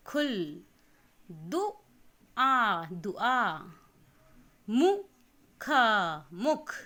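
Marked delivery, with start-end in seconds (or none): 1.3-2.8 पुल drawn out slowly and loud, each sound clear; slow syllabic reading. Shown as a demonstration. Teacher reads पुल slowly, loud and stretched. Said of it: "अक्षर को मात्रा के साथ आप पढ़ेंगे". 4.7-5.7 पुल drawn out slowly and loud, each sound clear; slow syllabic reading. Shown as a demonstration. Teacher reads पुल slowly, loud and stretched. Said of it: "अक्षर को मात्रा के साथ आप पढ़ेंगे".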